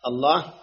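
الله with the lam held far too long; wrong overlong lam in الله. Shown as a demonstration. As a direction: drag the lam of الله well past its length. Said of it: "لا تمد اللام".

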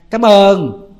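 mock-bitter thanks, dripping sarcasm; sarcastic retort. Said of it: "cái gì bà cũng không chịu hết trơn á". (giọng mỉa mai hờn dỗi, to)

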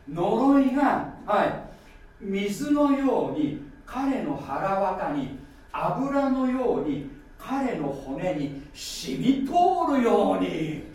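slow, drawn-out reading of the verse; slow scripture reading. Acted. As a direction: let each image sink in. Continues reading the psalm. (ゆっくり噛みしめる朗読)

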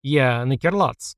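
ordinary delivery, nothing marked

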